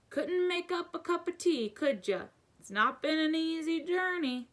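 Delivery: high, rough-hewn giant voice, friendly; booming giant, folksy and friendly; Hagrid-like giant. A narrator's reading. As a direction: play the big gentle giant asking for tea. Giant asks for tea.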